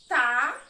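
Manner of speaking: loud, separated syllable Bó; teacher counting syllables on her fingers; syllable clapped out. Shown as a demonstration. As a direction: punch out Bó as its own beat. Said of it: "Eu vou marcar a sílaba".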